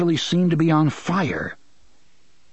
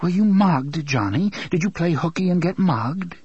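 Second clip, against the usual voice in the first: timidly; 5 semitones higher than usual. Acted. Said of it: "and then added timidly".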